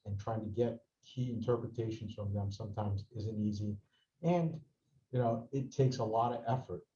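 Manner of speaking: audio dropping out in bursts; bad mic, words fading away; voice cutting in and out. Real, not acted. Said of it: "your voice is going in and out".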